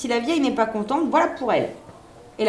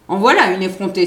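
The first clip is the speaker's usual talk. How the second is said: louder, outraged cry; indignant exclamation; 8 dB louder than usual. A narrator's reading. Nurse scandalised by the beggar girl, loud indignant cry. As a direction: burst out at the cheeky girl. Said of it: "s'écria la nourrice".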